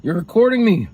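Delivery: imitating dad. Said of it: "But then my dad's like".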